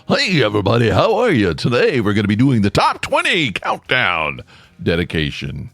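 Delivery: hammed-up radio host announcing the countdown. Shown as a demonstration. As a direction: play the smooth, upbeat countdown DJ, a bit over the top. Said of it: "slipped into my radio voice".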